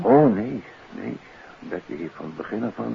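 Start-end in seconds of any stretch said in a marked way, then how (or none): 0.0-1.2 emphatic denial. Acted. Doctor rejects stepmother's help.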